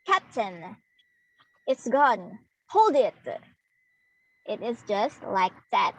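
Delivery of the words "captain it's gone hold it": CAPTAIN, IT'S GONE, HOLD IT in separate beats, first syllable of each leaning harder; trochee stress pattern. Shown as a demonstration. Teacher showing the class how trochee should sound, stressed then unstressed. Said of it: "should sound like".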